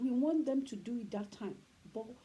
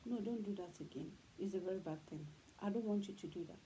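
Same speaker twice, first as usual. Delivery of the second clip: softer, calm, firm parental talking-to; sit the child down and correct them gently; calm correction; 3 semitones lower, 5 dB quieter than usual. Retold or imitated. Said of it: "But when you sit them down, you talk to them".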